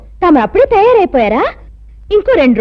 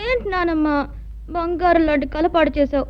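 soft, drowsy grumbling just out of bed; sleepy mumble; 9 dB quieter than usual. Acted. Girl just woken by grandmother, soft sleepy complaint. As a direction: whine like someone dragged from a sweet dream.

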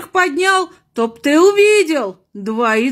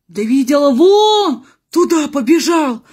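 nun voice; 6 semitones higher than usual. Acted. Nun points the way.

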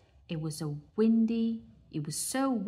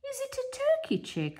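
put-on old duck. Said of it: "said the old duck".

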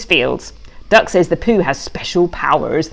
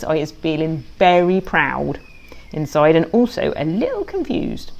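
whisper; 3 semitones lower, 7 dB quieter than usual. Acted. Pig's private feelings.

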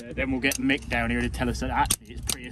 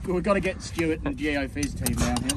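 put-on Australian accent; 2 semitones higher than usual. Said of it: "that's gone Australian".

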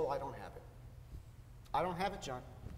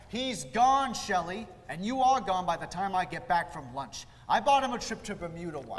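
boss's reply; 7 dB louder than usual. Retold or imitated. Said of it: "I call Murray up".

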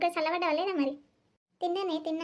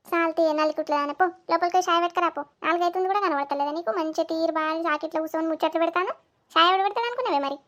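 scolding mother-in-law; 4 dB louder than usual. Acted. Mother-in-law scolds her daughter-in-law.

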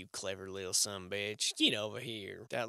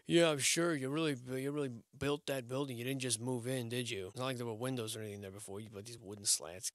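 sarcastic mock. Mocking building's owners.

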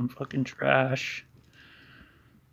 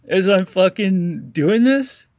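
irritated; 4 semitones higher, 8 dB louder than usual. Real, not acted. Angry rant at critic.

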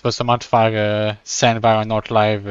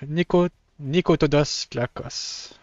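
slow, higher, hesitant try at a Spanish accent on Nicotodos Klakos; playful shot at a Spanish accent; attempted Spanish accent; 5 semitones higher, slower than usual. Shown as a demonstration. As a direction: sound out the name slowly in a Spanish accent. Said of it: "avec un accent espagnol".

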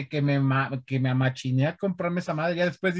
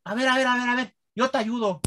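imitating dad; 7 semitones higher than usual. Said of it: "llegaba y me decía".

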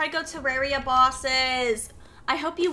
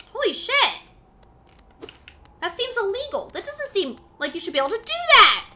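amazed; 9 semitones higher, 6 dB louder than usual. Real, not acted. Amazed at a trick.

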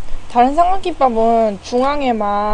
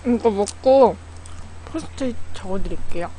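speaking between bites; chewing while talking. Real, not acted. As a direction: mouth partly full of rice. Seen 0: Bites rice ball at -2; cheeks and lips move while talking, holding it.

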